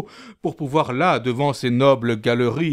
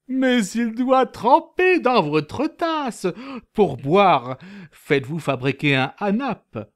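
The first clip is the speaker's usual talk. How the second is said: friendly; 3 semitones higher than usual. Acted.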